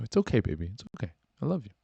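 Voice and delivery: tender reassurance; soothing boyfriend. Acted. Boyfriend forgives embarrassed girlfriend, tenderly soothing. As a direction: comfort them gently.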